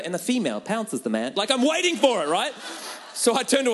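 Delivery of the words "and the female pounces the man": a hint of a hushed nature narrator; lightly voiced David Attenborough. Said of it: "I can imagine his voice just coming over".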